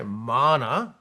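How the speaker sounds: "mana" pronounced as in Māori, long first vowel; Māori pronunciation. Shown as a demonstration. Teaching a New Zealand Indigenous word, Māori pronunciation. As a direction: say "mana" slowly sounded out as MAR-na. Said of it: "pronounced M A R R N A".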